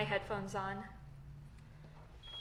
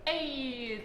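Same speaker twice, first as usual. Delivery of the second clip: Canadian ay, a bit higher; Canadian accent; 4 semitones higher, 4 dB louder than usual. Shown as a demonstration. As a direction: drop a Canadian ay. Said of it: "this is how Uber and Lyft drivers know that I am Canadian".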